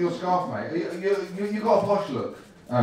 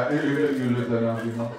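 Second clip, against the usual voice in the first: a light posh imitation of the guest, a touch lower; half-hearted posh impression, slightly lower; mock posh voice; 4 semitones lower, 3 dB quieter than usual. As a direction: borrow Miles's plummy tone for a moment. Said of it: "I don't know why I'm doing your voice there".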